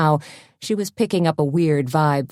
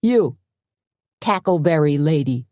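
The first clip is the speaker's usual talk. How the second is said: louder, calling across the bar. Acted. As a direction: raise it to be heard. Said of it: "louder this time".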